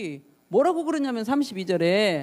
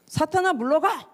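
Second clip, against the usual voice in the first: high-pitched stern dismissal; quoted command, pitched up; acted rebuke; 6 semitones higher than usual. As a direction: order them away in a mock reprimand. Voicing Jesus rebuking Peter.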